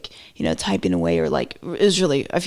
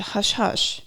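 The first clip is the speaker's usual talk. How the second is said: "hush hush" whispered with no voice; 3 semitones higher, 4 dB quieter than usual. Pretend. Joking about a porn star kept quiet, whispered. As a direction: breathe "hush hush" like a secret.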